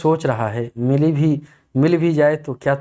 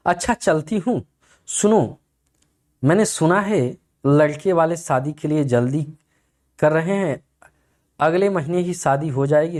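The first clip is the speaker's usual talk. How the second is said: heroine's voice; 2 semitones higher than usual. Acted. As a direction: sweet-talk him as the scheming heroine. Heroine pleads with hero, higher voice.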